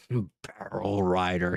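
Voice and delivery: low, slow dragon snarl. Acted. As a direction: growl it like a furious dragon. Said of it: "with the dragon voice".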